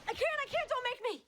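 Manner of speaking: high, loud frightened pleading; panicked. Acted. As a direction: beg in panic from the nightmare. Dream panic resisting ghost.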